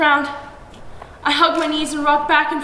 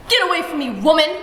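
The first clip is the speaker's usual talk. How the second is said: growl; 5 semitones higher, 4 dB louder than usual. A narrator's reading. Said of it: "Appa growls".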